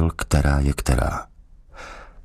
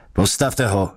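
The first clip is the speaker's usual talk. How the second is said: gruff order; 4 semitones higher than usual. Acted. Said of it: "houkl vyšetřovatel".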